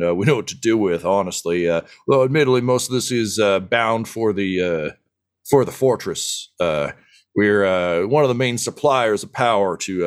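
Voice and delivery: lightly voiced boisterous dwarf leader, welcoming; a hint of a proud dwarf boss greeting guests; hearty dwarf chief. Dwarf chief welcoming the party to her habitat, lightly voiced hearty. GM voices Keg Stand Kelly.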